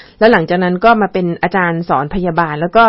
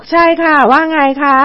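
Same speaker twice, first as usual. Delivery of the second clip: groggy slurred voice; 6 semitones higher than usual. Retold or imitated. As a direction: mumble it like half asleep. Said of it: "ก็เสียงอ้อแอเต็มที".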